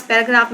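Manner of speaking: "पैराग्राफ" in three separated beats; syllable by syllable. Shown as a demonstration. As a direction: break "पैराग्राफ" into pa, ra, graph with pauses. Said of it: "पैराग्राफ में three syllables हैं".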